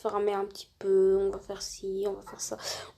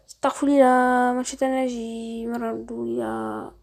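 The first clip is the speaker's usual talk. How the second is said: voice changer; 6 dB louder, slower than usual. Shown as a demonstration. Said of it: "une petite démonstration de changeur de voix".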